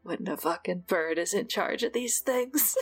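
Sato voice. Acted. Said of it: "like, Sato voice".

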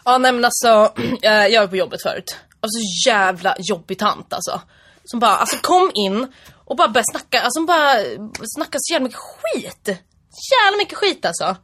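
griping in put-on Stockholm dialect; Stockholm accent. Shown as a demonstration. Podcaster told to be serious, imitates Stockholm accent. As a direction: play a complaining Stockholmer.

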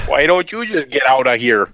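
lightly hammed Sopranos wiseguy; New York mobster accent. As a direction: say it like a mob tough guy. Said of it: "talking like Tony Soprano and his crew".

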